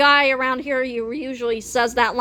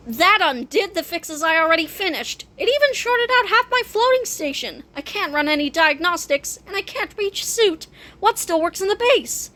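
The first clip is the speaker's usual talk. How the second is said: a touch of high-pitched exasperation; exasperated repairer; 4 semitones higher than usual. Acted. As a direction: complain as the systems keep failing. Exasperated character over failed repair.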